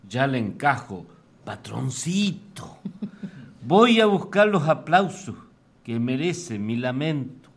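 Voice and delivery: declaimed verse in rhythmic phrases with pauses; comic folk-poem declamation; poem recital. Acted. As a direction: recite with swinging pitch, rising openings and falling line ends. Reads own poem aloud.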